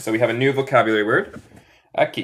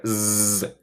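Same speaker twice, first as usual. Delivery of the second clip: a soft buzzing "Z" like a bee; 2 semitones lower, 7 dB quieter than usual. Shown as a demonstration. Teacher shows students the bee-like z. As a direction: hum the "Z" like a bee. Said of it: "suenan más como abeja".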